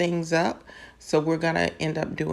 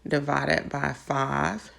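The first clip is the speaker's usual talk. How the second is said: slow, drawn-out step-by-step dictation; very slowly; slower than usual. Real, not acted. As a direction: take your time so learners can follow. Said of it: "do it again very slowly".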